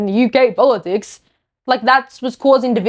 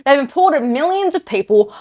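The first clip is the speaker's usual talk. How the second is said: getting angry; 2 semitones higher than usual. Real, not acted. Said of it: "I'm getting angry".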